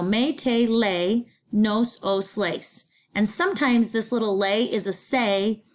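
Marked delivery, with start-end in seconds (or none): 0.0-2.8 slow recitation. Shown as a demonstration. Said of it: "So we go".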